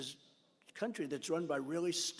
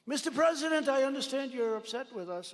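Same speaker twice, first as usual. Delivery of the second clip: pleading caller; 7 semitones higher, 5 dB louder than usual. Retold or imitated. Foreign leader pleading on call.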